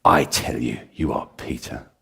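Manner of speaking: lightly voiced Jesus. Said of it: "Jesus is speaking".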